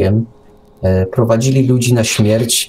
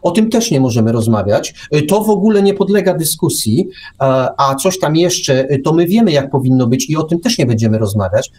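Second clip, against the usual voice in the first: mocking official; 3 semitones higher than usual. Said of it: "ktoś państwu mówi".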